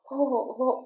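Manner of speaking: soft breathless huffs; wheezing pants. A narrator's reading. Sick old man panting after a struggle. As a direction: pant out of breath. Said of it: "वह हाँफता ही जा रहा था".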